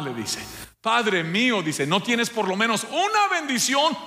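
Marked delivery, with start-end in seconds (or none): 0.8-1.6 much higher, tearful cry; crying plea. A narrator's reading. 1.9-4.0 very high, wailing, tearful begging; crying plea. A narrator's reading.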